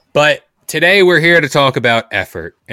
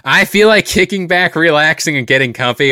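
hyped intro; 5 semitones higher, 3 dB louder than usual. Acted.

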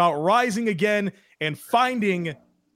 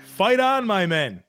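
reciting a poem. Acted. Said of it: "A Scottish poem that Marv Levy gave to his team".

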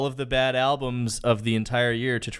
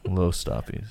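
low, heavy doom-laden greeting; crushed by dread; impending doom; 6 semitones lower than usual. Shown as a demonstration. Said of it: "crushing weight of ... impending doom".

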